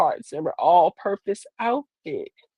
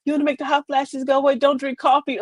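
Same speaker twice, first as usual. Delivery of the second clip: preachy advice-giver; 6 semitones higher than usual. Retold or imitated. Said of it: "all the people go".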